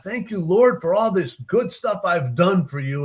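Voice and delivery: a lightly voiced smug priest thanking God; proud priest. Priest thanking God for his own work, lightly smug. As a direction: boast to God, pleased with yourself.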